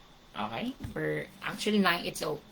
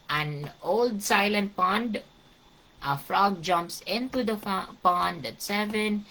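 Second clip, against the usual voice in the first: slow syllable count; 3 semitones higher than usual. Shown as a demonstration. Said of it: "Bilangin natin".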